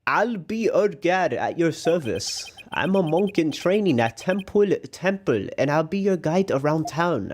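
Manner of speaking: put-on a proud young monk offering help. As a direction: Karate Kid style boy voice. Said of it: "that's the voice I'll give him".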